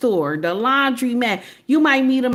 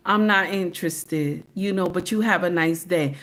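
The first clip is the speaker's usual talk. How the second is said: polite brush-off; 5 semitones lower, 4 dB quieter than usual. Shown as a demonstration. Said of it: "all you gotta do is say".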